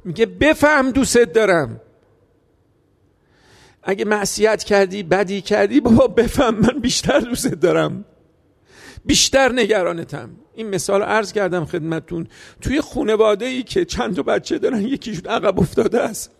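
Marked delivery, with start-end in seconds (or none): 0.2-10.3 tender plea. Acted. Voicing the Imam's loving plea.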